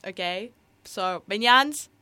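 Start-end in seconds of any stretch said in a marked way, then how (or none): 1.3-1.9 slow, halting Gru accent; Gru impression. Shown as a demonstration. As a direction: address the henchmen as Gru, climbing louder. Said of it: "not gonna do the accent".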